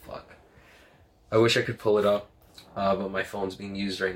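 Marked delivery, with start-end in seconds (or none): 0.1-0.3 whispered curse. Real, not acted.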